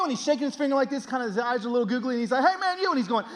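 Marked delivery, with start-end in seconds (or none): 2.4-2.9 loud, high redneck holler; hammed-up redneck shouting after someone; redneck stranger. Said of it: "the most redneck human being you've ever met".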